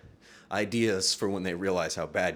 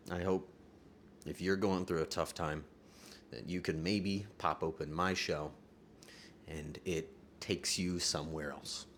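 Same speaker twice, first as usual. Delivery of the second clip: tender wish; 4 semitones lower, 6 dB quieter than usual. Real, not acted.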